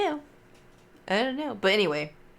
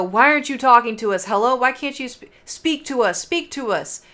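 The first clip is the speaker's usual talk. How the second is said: higher, louder call into the dark hallway; mock ghost hunter calling; 4 semitones higher, 5 dB louder than usual. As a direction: summon the spirit, hammed-up. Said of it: "calling out stuff".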